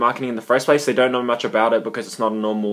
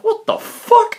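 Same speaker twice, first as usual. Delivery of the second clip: high-pitched, incredulous outburst; dumbfounded; much slower than usual. Retold or imitated. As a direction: blurt it out in utter disbelief. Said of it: "like, dumbfounded".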